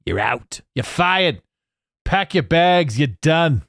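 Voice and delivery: theatrical, punchy dismissal; hammed-up firing, pitch jumping up; mock boss firing someone. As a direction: play-act a boss sacking someone.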